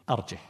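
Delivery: "أرجه" as arjih, h without a vowel; short "أرجه" with no glottal stop; without hamza. Shown as a demonstration. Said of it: "من قرأ بغير همز".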